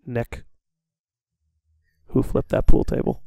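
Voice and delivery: hushed, half-whispered interrogator; very soft questioning. Retold or imitated. Head of security repeating his question to a student, very softly. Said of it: "very softly goes".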